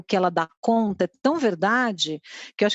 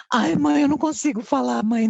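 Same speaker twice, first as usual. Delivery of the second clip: put-on dramatic kid; 3 semitones higher than usual. Boy too embarrassed to ask his mom, whiny. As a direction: ham up a shy boy's drama. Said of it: "Daí ele fez um drama".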